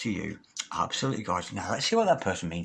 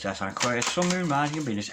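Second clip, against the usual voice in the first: usual speaking voice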